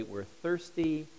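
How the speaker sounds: slow, whining "We're thirsty"; complaining people, slow and whiny; whiny complaint. Retold or imitated. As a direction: drag it out like a sulky crowd. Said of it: "the people of God say".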